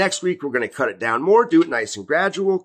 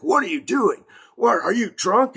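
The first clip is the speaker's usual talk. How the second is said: retold angry scolding; 8 semitones higher than usual. Landlady scolding her tenant for drinking beer, mock anger. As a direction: scold him like a shocked landlady. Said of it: "She starts going off on me".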